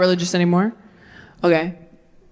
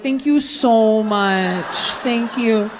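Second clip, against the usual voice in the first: gushing thanks; much slower than usual. Retold or imitated. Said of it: "You're like".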